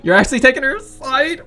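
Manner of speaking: put-on a touch of a prickly girl, pushing back; lightly voiced indignant teen girl; Natsuki, annoyed. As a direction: voice the irritated club member scoffing. Player voices Natsuki in game.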